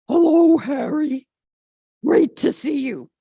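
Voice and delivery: loud, delighted hello; a dog thrilled to see his owner; happy greeting. A narrator's reading. George greets returning owner.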